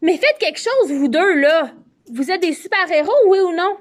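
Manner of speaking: distraught, high, loud demand; Juliette. A narrator's reading. Juliette begging the two superheroes to act, distraught. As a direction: cry out in helpless desperation. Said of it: "leur crie désa-, désemparé".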